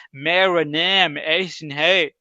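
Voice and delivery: slow, stretched-out Urdu in a Western accent, mocking a foreigner; a mock foreigner saying میرا نام احسن ہے with English vowels. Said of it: "وہ یہ کہے گا". (گورے کا اردو لہجہ)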